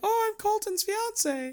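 very high-pitched, generic feminine voice. Recalling when the group gave Kaylee a woman voice, imitating Kaylee. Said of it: "we gave Kaylee the woman voice".

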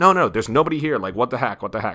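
insistent, emphatic, protesting tone. Retelling a scene where he denies hiding anyone: imitating an insistent denial. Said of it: "he's really insistent".

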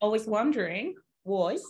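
bad Australian accent sliding toward South African. Asked to read the rest aloud in an australian accent, doing a bad australian accent. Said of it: "has that gone south african a little".

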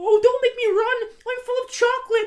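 very high, squeaky cartoon mouse voice. In a guess-who quote game, delivering the second quote in a squeaky cartoon mouse voice. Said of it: "You sound like Mickey Mouse".

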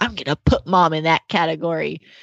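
ordinary delivery

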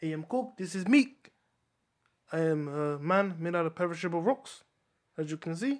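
very quiet, hushed, murmured New Zealand accent. A fan who is not a Kiwi talks to the listeners in a Taika Waititi voice. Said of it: "I'm just talking like this because I'm a fan of Taika Waititi".

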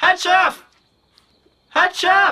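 in-character yelling. Voicing a player character looking around a courtyard: character yelling. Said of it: "he yells".

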